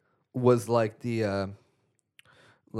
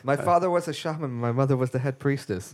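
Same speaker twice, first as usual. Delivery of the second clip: Agador impression; 3 semitones higher than usual. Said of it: "you're starting to sound more like Tommy Wiseau".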